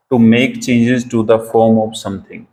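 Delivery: very slow, word by word; slow dictation. Shown as a demonstration. Teacher dictating the meaning to students, very slow. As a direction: dictate the meaning slowly for notes. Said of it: "इसका meaning है".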